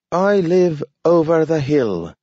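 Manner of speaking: high, talking dog; a dog speaking in a high voice. A narrator's reading. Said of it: "declared Nathaniel".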